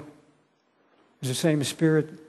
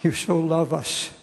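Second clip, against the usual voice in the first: praying aloud with long pauses between phrases; earnest prayer. Real, not acted. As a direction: address God directly, phrase by phrase.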